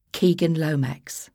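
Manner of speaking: put-on Cockney accent. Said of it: "in a Cockney accent".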